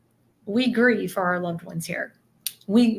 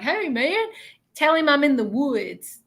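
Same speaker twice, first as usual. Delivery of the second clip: much higher, easy buddy voice; casual young guy; 6 semitones higher than usual. Retold or imitated. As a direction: toss it off like talking to a mate. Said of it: "and he's like".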